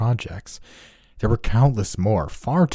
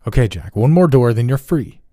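urgent coaxing; 5 semitones higher, 8 dB louder than usual. A narrator's reading. Doctor urges Jack on.

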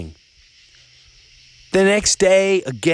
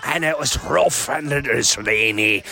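slow, lightly voiced recital of an old sea poem; reciting sea poem; 2 semitones higher than usual. Pub poet holding court with locals, slow recital. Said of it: "So he's talking about the sea".

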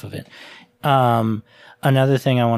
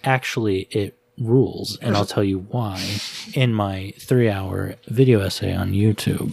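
monotone video essayist; 4 semitones lower than usual. Retold or imitated. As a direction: lecture it in a droning monotone. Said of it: "In that monotone ass voice".

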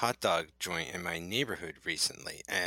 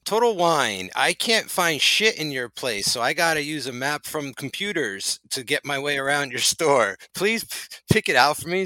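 hammed-up pitch man, higher and louder; mock ad read; 4 semitones higher, 4 dB louder than usual. Cohost improvising an ad for Total Wine, hammed-up pitchman. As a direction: sell the store like a cheesy radio spot. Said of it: "a cold read for them with nothing".

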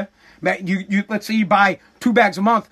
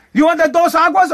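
louder, higher mock shopper voice; imitating the lady; 7 semitones higher, 5 dB louder than usual. The lady repeating her question, a louder mock voice. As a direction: push the question like a pushy lady. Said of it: "She said it like ten times".

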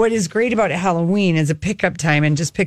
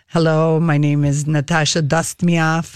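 put-on slow, low-pitched Russian-accented introduction; 4 semitones lower than usual. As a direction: play a French maid who comes out sounding Russian. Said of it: "Why does she have a Russian accent?".

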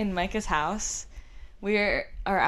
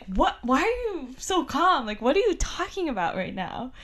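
alarmed; 5 semitones higher than usual. Retold or imitated. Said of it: "made me more alarmed".

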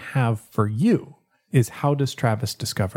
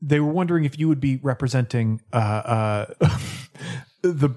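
lightly voiced timid butler; hint of a nervous skeletal servant; creepy butler; faster than usual. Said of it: "A spooky butler timidly".

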